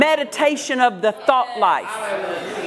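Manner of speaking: rising, insistent preacher's cadence; preaching. Acted. Pastor preaching to the congregation, fervent and rhythmic. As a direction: drive each phrase home to the congregation.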